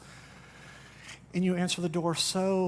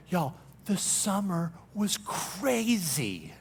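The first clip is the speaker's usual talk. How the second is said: weary summer sigh; 4 dB quieter, much slower than usual. Pretend. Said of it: "we say".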